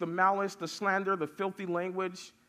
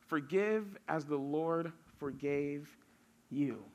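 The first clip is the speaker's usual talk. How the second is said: scripture reading. Acted. Pastor reading the next slide's verses to the youth, measured. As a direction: read the passage out deliberately.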